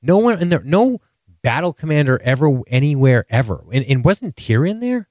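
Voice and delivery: high, insistent protest; nobody would ever, really push it; indignant outburst. Real, not acted. Ranting at her cohost, high and insistent. Indignant rant about Dany.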